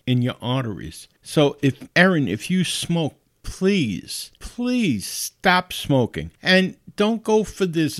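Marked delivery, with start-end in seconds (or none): 1.9-8.0 high, slow plea, "please" drawn out; pleading. Real, not acted. Host begging listener Erin to quit smoking: heartfelt plea. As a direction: beg Erin to stop, stretching each "please". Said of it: "I'm begging you".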